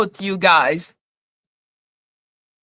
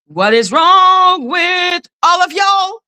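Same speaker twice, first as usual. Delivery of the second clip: exasperated shout; 6 semitones higher than usual. Real, not acted. Exasperated outburst.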